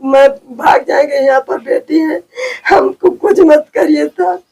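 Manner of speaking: pleading, a touch of crying; retold tearful plea. Woman repeats her plea to police, crying. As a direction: beg the officer again through tears. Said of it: "मैं भी ऐसे बोले".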